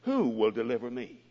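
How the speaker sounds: desperate apostle's wail; crying out. Retold or imitated. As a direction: cry out in wretched despair. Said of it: "he cried out".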